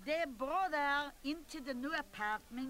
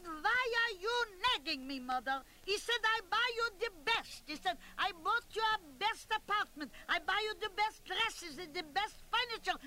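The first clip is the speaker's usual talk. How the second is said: a rich son complaining about his generosity; indignant son; 6 semitones higher than usual. Retold or imitated. Son whines at his mother about what he buys.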